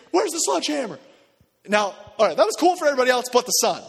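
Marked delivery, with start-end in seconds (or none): 0.1-1.0 mock panic. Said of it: "they start freaking".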